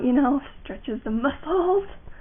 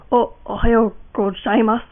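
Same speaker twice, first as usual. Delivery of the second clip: put-on boy voice. Shown as a demonstration. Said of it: "if you wanna do a boy voice".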